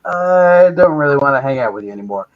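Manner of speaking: imitating himself easing out of a friendship; mock awkward brush-off. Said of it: "and I was like".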